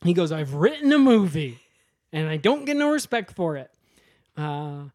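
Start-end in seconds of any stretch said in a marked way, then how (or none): 0.3-3.7 acted aggrieved protest, starting loud; indignant complaint. Kyle complaining to the director, mock indignant. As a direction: complain like a slighted writer.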